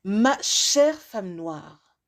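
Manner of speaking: measured recitation with long pauses; spoken-word poem. Acted. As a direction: deliver it as a rhymed address, phrase by phrase. Recites a written rhyming piece.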